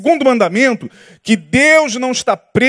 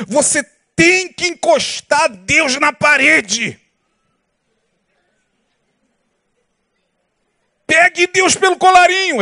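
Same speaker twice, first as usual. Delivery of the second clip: higher, emphatic imitation of a preacher; religious leader's intonation; 5 semitones higher, slower than usual. Religious leader telling believers to corner God, imitated intonation. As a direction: mimic a preacher making bold demands of God. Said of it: "fazendo a entonação da voz".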